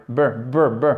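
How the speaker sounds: b as a short schwa syllable, repeated; ending without R. Shown as a demonstration. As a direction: drill b, b, b with no R. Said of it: "on n'entend même pas le R à la fin".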